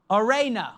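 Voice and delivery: "eirene" said slowly as ay-RAY-nuh, falling at the end; Greek word. Shown as a demonstration. Pastor teaches the congregation to say "eirene" as ay-RAY-nuh. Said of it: "it's the Greek word".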